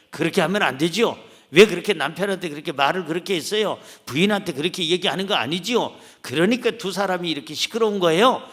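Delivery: bossy counselor scolding. Retold or imitated. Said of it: "내가 어떤 코칭을 하는 게 아니에요".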